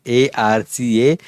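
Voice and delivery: each letter spaced apart; spelled out slowly. Shown as a demonstration. Teacher spelling आरसा for learners, slow and deliberate. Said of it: "ऐसा उसका pronunciation है".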